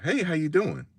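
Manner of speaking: high, light mock officer voice; imitating the officer's cheery hello; cop greeting. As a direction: chirp it like a friendly cop. Cop voiced in story, sudden greeting.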